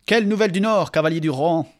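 loud hail to riders; calling out. Acted. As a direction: call out boldly. Aragorn hails the riders.

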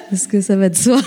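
quick words through a laugh, half-joking. Real, not acted. Guest laughing as she plugs her own podcast, amused. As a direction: laugh it off while plugging her own show.

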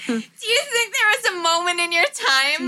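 mocking echo. Listener parrots the storyteller's quoted question, mocking.

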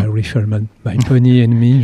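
French speaker's self-mocked English accent on a song title. Shown as a demonstration. Guest recalling a western song, in a self-mocked English accent. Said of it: "avec mon accent anglais".

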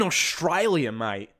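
brief mock Australian accent. Talk show host naming countries with protests, playful Australian accent. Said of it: "the Australian accent".

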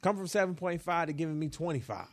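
ordinary talk, nothing marked

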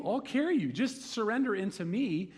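God eagerly promising to carry you; eager reassurance. Retold or imitated. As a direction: sell the rescue eagerly, rushing at first. God voiced comforting believers.

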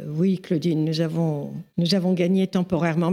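measured, reflective reply, imitating an older mentor; a touch of aristocratic reserve; cool, not unkind. Simone answers her excited young friend after reflecting, coolly. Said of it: "d'un air très froid, mais pas méchant du tout".

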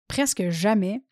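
raspy, husky speaking voice; hoarse voice. Real, not acted. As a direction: talk through a hoarse throat. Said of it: "j'ai même mis ma voix rauque aujourd'hui".

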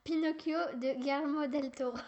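put-on Spanish accent. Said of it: "je vais sortir mon accent espagnol".

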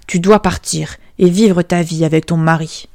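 lightly voiced father casting her out; stern king. King banishing his beggar daughter, mildly stern. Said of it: "dit-il".

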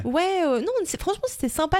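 lightly exaggerated Parisian small talk; Parisian accent. Shown as a demonstration. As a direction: show off the Parisian way of chatting. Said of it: "C'est plus une manière de parler".

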